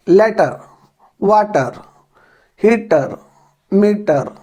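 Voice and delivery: Indian English accent, full hard ट in "लेटर" and "मीटर". Shown as a demonstration. Teacher showing students the Indian way, Indian English accent. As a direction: say "वाटर" the Indian way, every ट sounded in full. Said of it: "Indians जो हैं, वो इसको किस प्रकार से बोलते हैं".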